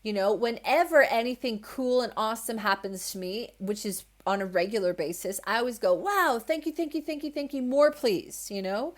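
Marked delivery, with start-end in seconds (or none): 5.9-8.5 high, gushing string of thanks; delighted gratitude. Acted. Thanking life whenever something awesome happens, delighted. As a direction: pour out thanks in a high, eager voice. Acts out thanks for good things.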